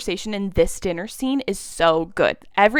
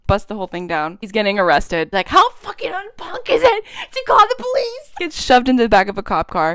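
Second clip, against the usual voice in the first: usual speaking voice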